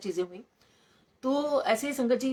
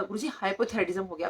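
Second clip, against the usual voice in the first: mild re-enactment of speaking up; retold loud reply. Patient repeating her diagnosis to Guruji, mildly raised voice. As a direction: say it up, but stop short of shouting. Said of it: "उतनी जोर से मैंने कहा".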